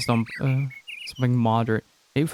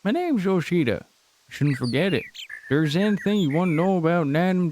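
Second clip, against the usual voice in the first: put-on southern accent; 5 semitones higher than usual. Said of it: "I really wanted to do a southern accent".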